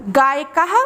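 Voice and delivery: गायकः ending with h; teacher demo of गायकः; Sanskrit pronunciation. Shown as a demonstration. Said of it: "मेरे साथ आप भी उच्चारण करिए".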